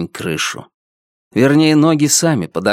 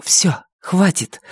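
cutting him off; 7 semitones higher, slower than usual. Acted. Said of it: "оборвала его Вика".

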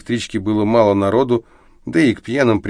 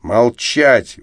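louder, enraged shout; furious shout; 3 semitones higher, 5 dB louder than usual. Acted. Volya suddenly enraged, silencing his drunk friend. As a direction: bark it in sudden rage. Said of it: "рассвирепел".

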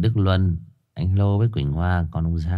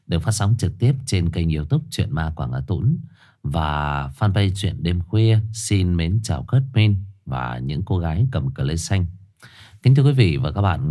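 measured horror-story host announcement; formal show intro. Acted. Host welcomes listeners to a highland ghost story, formal announcer delivery. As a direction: present it formally, lingering on the titles.

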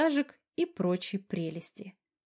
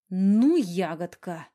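growling; 4 dB louder, much slower than usual. Acted. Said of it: "рыкнул он".

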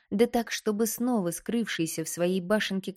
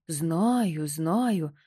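impatient. Acted. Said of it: "нетерпеливо прервал её Найдён".

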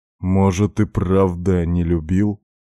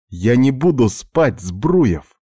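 higher, stubborn female refusal; a touch of indignation, pitched up; insistent protest; 6 semitones higher, 4 dB louder, slower than usual. A narrator's reading. Katya refuses to let the patient make her sleep, insistent. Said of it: "не унималась Катя".

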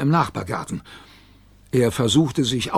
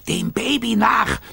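high, drawn-out command; urgent chase order; 9 semitones higher than usual. A narrator's reading. Gigglerin urging Robbie on, slow high call.

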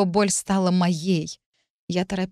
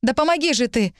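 wailing; 6 semitones higher than usual. Acted. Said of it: "завывала я".

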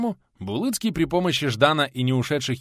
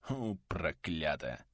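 low, much softer, slow cursed mutter; lower, quieter mutter while coughing; coughing curse; 6 semitones lower, 10 dB quieter, much slower than usual. Acted. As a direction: groan it out between coughs. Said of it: "вновь зашёлся кашлем".

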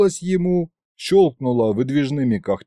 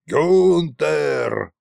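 drawn-out call for a servant; mild acted yell; 3 semitones higher, 3 dB louder than usual. A narrator's reading. Tsar calling his butler, yelling. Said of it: "заорал царь-батюшка".

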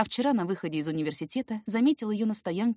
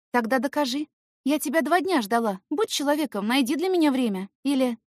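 put-on high coaxing girl voice; demanding young woman; 6 semitones higher, 5 dB louder than usual. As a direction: coax and demand playfully. Girl's voice, demanding.

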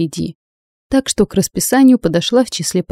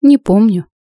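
mock scoff; 4 semitones higher, 5 dB louder than usual. A narrator's reading. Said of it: "наигранно хмыкнула я".

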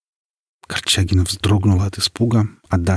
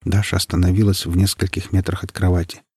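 usual speaking voice

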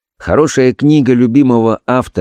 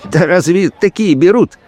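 ironic; 9 semitones higher than usual. A narrator's reading. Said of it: "иронически усмехнулся он".

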